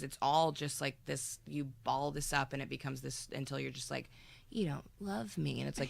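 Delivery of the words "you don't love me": high, slow whine; whiny accusation. Retold or imitated. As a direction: pout it out like a hurt partner.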